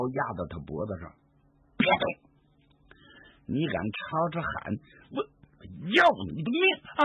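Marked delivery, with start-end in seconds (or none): 1.8-7.0 menacing warning, fast and rising hard on the last words; threat. Acted. Yan Qing threatens the old woman at knifepoint, hard menacing warning. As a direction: snap it out like a man with a blade at her throat.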